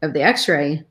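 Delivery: halting, holding back real emotion; sigh, then push on through long pauses; getting emotional. Real, not acted. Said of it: "I'm getting all emotional".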